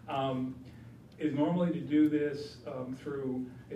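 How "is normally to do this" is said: closer to the mic. Real, not acted. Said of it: "Or I could lean in forward".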